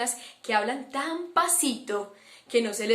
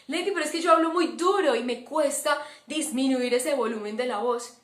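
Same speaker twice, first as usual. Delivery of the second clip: imitating a loud-voiced student; 3 semitones higher than usual. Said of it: "¿Será que te cuesta bajarle al volumen". (imitando a un alumno que habla duro)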